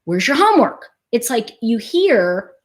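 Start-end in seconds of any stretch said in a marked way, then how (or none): 0.0-0.9 scolding tonality. Retold or imitated. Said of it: "that tonality".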